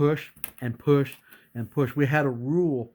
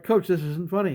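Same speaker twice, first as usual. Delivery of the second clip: higher-pitched mock indignation; retold protest; 5 semitones higher than usual. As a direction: act out objecting to being laughed at. Player protests at laughing coach.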